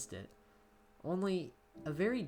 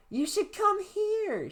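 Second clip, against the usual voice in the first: laughing; 4 dB louder, much slower than usual. Acted. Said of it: "she said, laughing".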